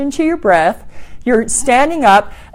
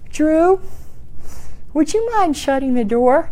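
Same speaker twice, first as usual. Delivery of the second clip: polite request; 5 semitones higher, 4 dB quieter than usual. Retold or imitated. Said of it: "So you might have to say".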